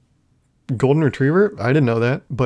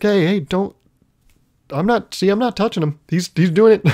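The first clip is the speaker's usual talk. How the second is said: flustered protest; 7 semitones higher than usual. Retold or imitated. Explaining to watching neighbors.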